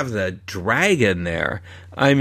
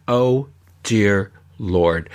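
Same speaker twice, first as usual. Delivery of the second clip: exasperated; 4 semitones lower, much slower than usual. Real, not acted. Exasperated groan at the tram tour.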